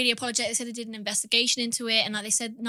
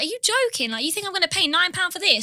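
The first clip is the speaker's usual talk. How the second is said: getting mad; 5 semitones higher than usual. Retold or imitated. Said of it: "Like, I was getting mad".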